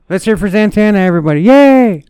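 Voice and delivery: high, loud announcer cheer; rally the crowd with a big yay; excited cheer. Pretend. Cheering on Zatanna.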